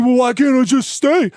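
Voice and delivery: mock tenant. Mocking tenant's whiny question.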